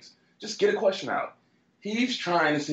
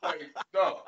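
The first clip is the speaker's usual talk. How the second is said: laughing; 7 semitones higher than usual. Real, not acted. Laughing at own story.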